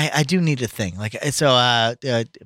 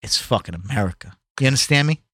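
tough guy; much faster than usual. Acted. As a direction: lean in and threaten. Tough-guy rant in mock quarrel.

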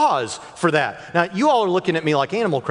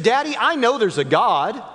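imitating young daughter; 6 semitones higher than usual. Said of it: "They said".

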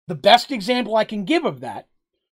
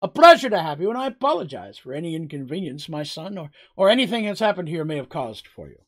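nervous mayor grovelling. Acted. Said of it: "Or he can do the smart thing".

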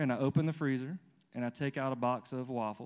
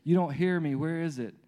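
put-on higher-pitched, insistent toddler demands; demanding two-year-old; 4 semitones higher than usual. Man playing himself as a child begging God, demanding two-year-old. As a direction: imitate an impatient child pestering a parent. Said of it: "I'm a two-year-old that says".

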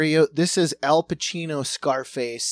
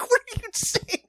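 very high, playing-dumb question; mock confusion. Stringing the scammer along with fake confusion, high. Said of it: "I was like".

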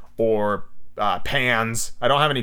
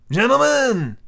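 higher, drawn-out commanding address; calm, penetrating voice; 10 semitones higher, 4 dB louder, slower than usual. A narrator's reading. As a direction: call the room to attention with authority. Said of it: "he said in a calm, penetrating voice".

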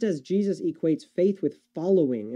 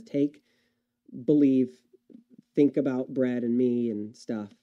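mock misquote; 4 semitones lower than usual. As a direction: toss it off like a watered-down paraphrase. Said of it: "No, he doesn't say any of that".

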